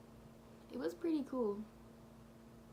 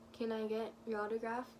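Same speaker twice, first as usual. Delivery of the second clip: barely talking. Retold or imitated. Fan retelling asking Bobby for an autograph, barely talking. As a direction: imitate being almost too starstruck to speak. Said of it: "Like, I didn't even talk".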